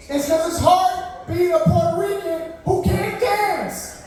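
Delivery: slow shouted complaint; shouted rant. Acted. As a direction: belt the punchline slowly.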